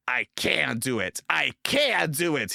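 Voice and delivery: high, loud determined puff. A narrator's reading. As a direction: push hard, chant it. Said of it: "he puffed".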